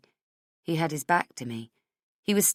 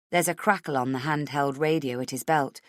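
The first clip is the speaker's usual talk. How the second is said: usual speaking voice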